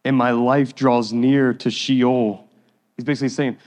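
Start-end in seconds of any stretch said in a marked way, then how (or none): 0.0-2.5 slow, deliberate psalm reading; scripture reading. Acted. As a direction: read the verse out slowly. Reads psalm aloud.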